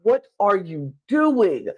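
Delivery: high, strained mock scream, breaking into hushing; mock inner scream. Christian in his head hushing Emily, mock screaming. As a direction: act out a desperate scream held inside. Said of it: "He was screaming".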